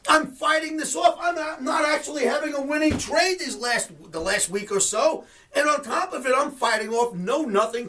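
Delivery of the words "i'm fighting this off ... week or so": getting mad. Real, not acted. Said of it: "I'm getting a little mad now".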